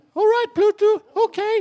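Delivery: high-pitched, loud, squeaky delivery. Explaining which impressions work before the voice breaks, the speaker does a Mickey Mouse impression. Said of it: "Musse Pigg kan man ju gå på".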